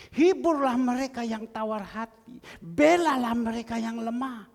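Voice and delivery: preacher proclaiming a verse; emphatic scripture reading. Real, not acted. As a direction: read the verse out as a forceful exhortation. Reads a Bible verse emphatically.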